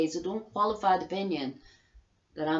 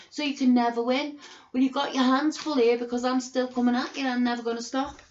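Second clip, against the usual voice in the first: louder and higher, fired-up challenge; raised, angry vow to keep fighting; defiant threat; 5 semitones higher, 5 dB louder, faster than usual. Real, not acted. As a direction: throw the threat straight at them. Defiant warning to the authorities.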